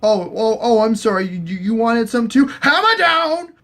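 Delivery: high, gloating put-on voice rising to a yell; mock taunt. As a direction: taunt the guard, then bellow the hit.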